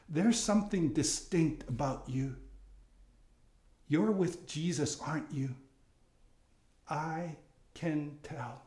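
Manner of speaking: soft, slowing to a hush; quiet recognition. Pretend. Telling someone you're with Jesus, quiet and knowing. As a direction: say it softly and knowingly. Gentle imagined recognition, after louder lines.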